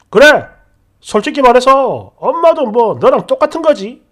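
loud, stubborn comeback; defiant shout back. Retold or imitated. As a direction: snap back without backing down. 남편이 되받아침. (남편이 지지 않고 소리치듯)

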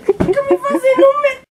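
half laughing, half crying reproach; scolding husband, still teary. Real, not acted. Wife scolds through tears.

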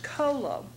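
cholo as KOH-loh; pronunciation demo. Shown as a demonstration. Teacher showing that both spellings sound alike, cholo clearly demonstrated. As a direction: say cholo with a K sound, stress first. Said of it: "which is also pronounced".

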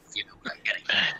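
fast sly whisper. Acted. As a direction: whisper it like a veiled threat. Sly threatening aside.

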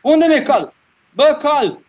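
high yelling for the lost horse; panicked call. Real, not acted. Gamer yelling after his lost horse in panic.

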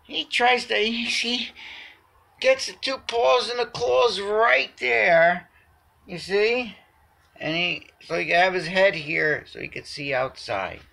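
loud, high thrilled cheer; excited. Real, not acted. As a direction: cheer the cat on. Cat climbs up, owner thrilled.

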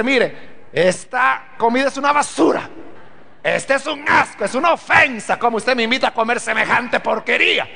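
mock-blunt insult of the food, said straight out; blunt rude answer. Shown as a demonstration. Guest telling the host the food is garbage, mock-blunt. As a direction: play the guest who bluntly trashes the meal. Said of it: "si usted le dice".

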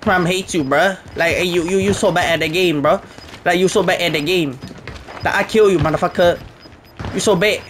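lightly put-on broken-English taunt; mocking the hacker. Gamer mocks the enemy hacker in mild broken-English voice.

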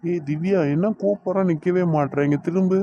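urgent demand to turn round; calling out. Acted. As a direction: call after someone who won't stop. Calls her as she walks away.

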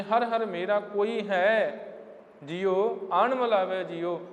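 slow chanted recitation, not sung; recited verse. Shown as a demonstration. Preacher recites the verse again, slow and spoken. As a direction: recite the line deliberately. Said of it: "ਹਜ਼ੂਰ ਕਹਿੰਦੇ".

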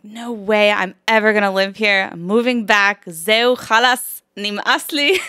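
loud, emphatic retold refusal; fed-up declaration. Telling host how she swore off Israel, fed up. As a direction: act out being completely done with it. Acting out her fed-up decision.

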